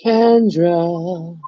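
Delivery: drawn-out name call to someone missing. Real, not acted. Calling co-host who isn't answering, drawn-out call. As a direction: stretch the name out, seeking a reply.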